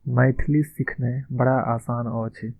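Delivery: slow, careful Maithili model line; slow model phrase. Shown as a demonstration. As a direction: say it slowly, like a teacher modelling. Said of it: "Maithili में हम क्या बोलेंगे".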